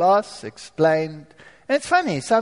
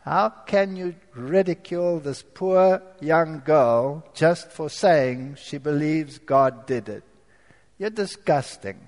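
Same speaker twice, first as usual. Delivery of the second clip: reproachful inner voice; 4 semitones lower, slower than usual. Retold or imitated. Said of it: "this little voice said to me".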